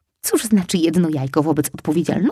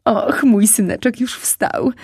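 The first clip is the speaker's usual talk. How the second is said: slow, higher glad mother voice; happy mother; 5 semitones higher, 3 dB louder, slower than usual. Acted. Mother fox greeting her awake son, glad. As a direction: coo over her son. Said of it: "ucieszyła się mama".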